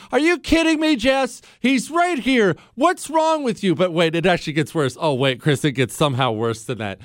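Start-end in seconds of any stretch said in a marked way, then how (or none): 0.1-3.8 high-pitched indignant scolding; mock yell, pitched way up; imitated yelling wife. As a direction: play the outraged wife telling off her husband. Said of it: "She starts yelling at me".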